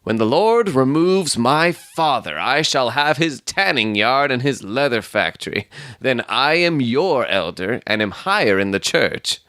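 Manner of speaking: mildly heated, pompous suitor; heated boasting. Acted. Stangerson outbidding his rival for the maiden, mildly heated and self-important. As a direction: press the claim insistently. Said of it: "said the other warmly".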